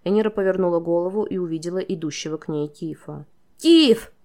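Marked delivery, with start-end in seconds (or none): 3.6-4.1 very high, loud cry; girl cries out to her friend; shout. A narrator's reading. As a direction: call out to him across the yard. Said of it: "крикнула она".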